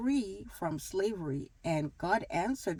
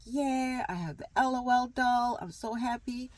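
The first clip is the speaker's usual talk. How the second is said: put-on excited little girl; 6 semitones higher than usual. Excited kid gets her doll.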